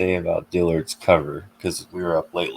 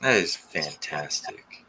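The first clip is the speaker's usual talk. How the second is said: slow, drawn-out fake praise; condescending; 2 semitones lower, 6 dB quieter, slower than usual. Real, not acted. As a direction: say it like a patronizing teacher. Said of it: "That sounds condescending".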